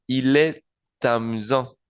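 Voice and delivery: "amusant" ending on a nasal vowel, no T; silent final T. Shown as a demonstration. Teacher gives the masculine form, "amusant" without the final T. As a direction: link into "amusant" but drop its last T, slowly. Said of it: "sin la pronunciación de la T".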